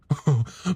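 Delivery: short, light laugh. A narrator's reading. Ellen amused by his memory of her, short light laugh. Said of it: "Ellen laughed".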